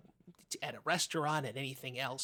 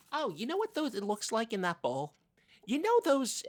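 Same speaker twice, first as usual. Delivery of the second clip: much higher, louder gush; light up over the snack bowl; eager snack discovery; excited; 9 semitones higher, 6 dB louder than usual. Acted.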